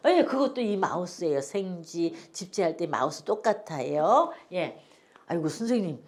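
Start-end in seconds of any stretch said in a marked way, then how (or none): 5.3-6.0 imitated older student objecting, louder as it goes; mock protest to the teacher, building louder; protesting student father. Father in class objecting to his teacher, mock loud protest. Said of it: "또 그러시는 아버님 계셨어요".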